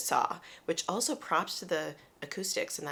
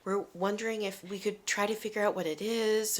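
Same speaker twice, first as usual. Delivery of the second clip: soft, apologetic politeness; retold timid, polite request; super nice; 3 semitones higher, 4 dB quieter than usual. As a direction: ask meekly, softer and slightly lifted. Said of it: "we were, like, super nice".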